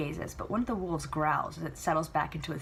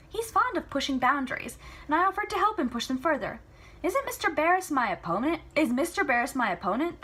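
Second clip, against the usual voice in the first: higher, louder daughter pushing back; spirited Celia; 9 semitones higher, 4 dB louder than usual. Acted. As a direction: argue playfully with Papa. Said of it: "Celia arguing with her father".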